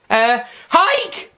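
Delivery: a playful fighting shout; mock battle yell. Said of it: "Poppy yelled".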